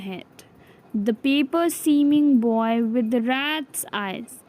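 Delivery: measured poem reading, phrase by phrase; poem recitation. A narrator's reading. Teacher reading the poem from the NCERT book, measured recitation. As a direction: read verse aloud with pauses between lines.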